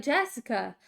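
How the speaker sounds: lightly imitated Brazilian accent. Parents' friends calling the daughter by the wrong name, light Brazilian accent. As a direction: put on a hint of a Brazilian accent. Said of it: "an accent 'cause they're Brazilian".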